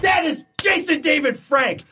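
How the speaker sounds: high-pitched, emphatic declaration; utterly convinced, high and punchy; emphatic insistence. Real, not acted. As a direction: insist excitedly, pitch jumping way up. Insisting after playing the clip.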